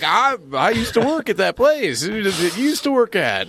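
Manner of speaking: high, flustered stammering voice; squeaky embarrassed stammer. Retold or imitated. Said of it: "And I was like".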